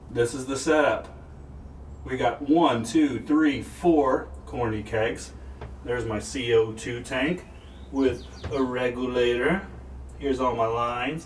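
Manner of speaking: a few beers in, slightly slurred; tipsy. Real, not acted. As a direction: talk like you've had a few. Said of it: "I don't know why I'm talking funny".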